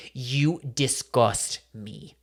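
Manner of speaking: slow, drawn-out imitation of a Southern accent; attempted Southern accent. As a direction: try a Southern drawl, not quite convincingly. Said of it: "trying to do a Southern accent".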